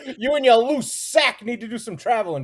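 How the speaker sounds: mock him through laughter; laughing tease. Real, not acted. Teasing Ray, laughing.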